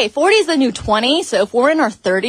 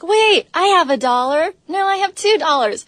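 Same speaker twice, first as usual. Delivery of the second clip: retold friends chipping in; 7 semitones higher, 3 dB louder than usual. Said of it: "his friends are like".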